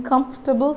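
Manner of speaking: "comfortable" as KUMF-tuh-bul; "comfortable" in three syllables; silent O. Shown as a demonstration. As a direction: drop the O in "comfortable". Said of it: "You have to silent the letter O".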